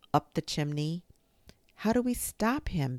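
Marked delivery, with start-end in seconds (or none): 1.8-3.0 high-pitched anxious question; high, plaintive child's question; worried cry. A narrator's reading. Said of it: "Benny cried".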